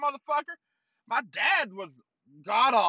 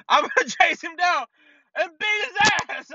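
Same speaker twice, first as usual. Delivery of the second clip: high mock-angry threat; worked-up, pitched-up rant; pissed off; 5 semitones higher, 4 dB louder than usual. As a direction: imitate an enraged wife vowing revenge. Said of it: "Like, pissed off".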